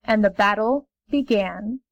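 plain reading voice

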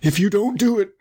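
high put-on wolf voice; threatening wolf cry. A narrator's reading. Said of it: "cried the wolf".

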